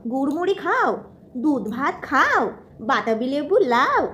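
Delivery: put-on slow sing-song rhyme for a toddler; reciting nursery rhyme. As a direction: recite it slowly, rhythmically.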